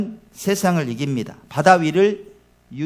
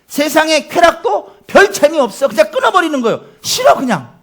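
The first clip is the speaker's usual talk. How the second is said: laughing; 9 semitones higher, 6 dB louder than usual. Real, not acted. Joyful preaching about quitting pleasures.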